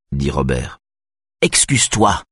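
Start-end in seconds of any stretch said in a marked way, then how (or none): 1.4-2.2 pressing, higher demand; insist, she won't let it go; insistent. A narrator's reading. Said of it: "dit-elle d'un ton insistant". (la femme insiste pour des excuses)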